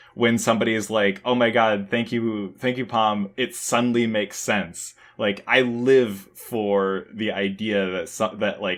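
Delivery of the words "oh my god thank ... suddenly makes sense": ordinary talk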